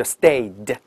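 "stayed" with -ed said as d; one-syllable "stayed" plus a clear d; voiced d ending. Shown as a demonstration. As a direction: model "stayed" with the voiced d set slightly apart. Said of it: "它只要要浊化的".

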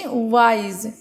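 "ওয়াইজ" as one unbroken syllable; one-stroke pronunciation. Shown as a demonstration. Teacher showing a single-syllable word, "ওয়াইজ" said in one stroke. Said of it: "একদম এক টানে উচ্চারণ করছি".

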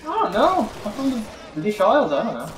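put-on light Australian accent; a hint of an Australian accent. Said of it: "That's Australian".

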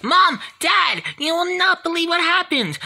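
high, loud call to the parents; excited calling out. Acted. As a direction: burst in bursting with news. Child calls parents with news.

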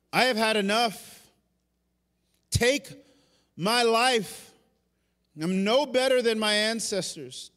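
loud, high, drawn-out cry of despair; pleading to be taken away, worn out; despairing plea. Retold or imitated. Elijah crying out to God, loud anguished plea. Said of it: "he runs away and he goes".

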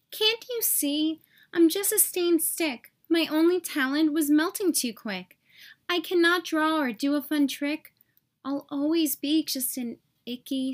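a hint of a sad, small stick voice; sad little stick. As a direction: mope through it gently.

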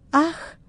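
a high, light "ach" of relief; sigh of relief. Retold or imitated. Kneeling woman sighs as pain leaves her, a relieved ach. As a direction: let out a relieved gasp. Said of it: "από ανακούφιση".

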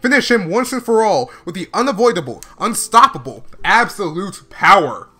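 loud, emphatic character readout; hammy rallying speech; voicing clown guy. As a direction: read it like a gloating anime villain. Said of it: "the clown guy is like".

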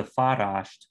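"farasht" stressed on its first syllable; "farasht" with strong first syllable, unstressed second. Shown as a demonstration. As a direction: say "farasht" with the weight on the opening syllable. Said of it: "stress is on the first syllable".

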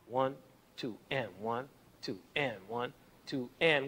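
soft count, "and" lifted and stressed; accent on "and". Shown as a demonstration. Teacher counts the Tchaikovsky rhythm with "and" stressed. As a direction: lean on each "and" in the count. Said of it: "the accent is on this part of the beat".

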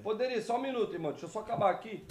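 very soft, barely-there volume; low voice. Real, not acted. Streamer asking a guest to wait a minute, in a very low voice. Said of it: "tua voz tá baixa".

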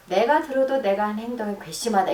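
firm mild indignation; agreeing self-reproach. Shown as a demonstration. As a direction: side with her, calmly. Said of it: "딱 동의를 해주면".

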